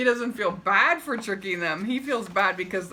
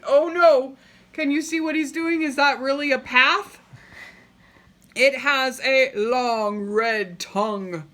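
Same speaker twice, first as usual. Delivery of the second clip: higher, louder, quick worried questions; excited alarm; 6 semitones higher, 7 dB louder than usual. Real, not acted. Reader reacting to the crocodile picture, excited alarm.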